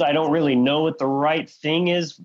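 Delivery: mock bewildered; mock confused believer. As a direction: act out the confused follower, voice up. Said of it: "It's like".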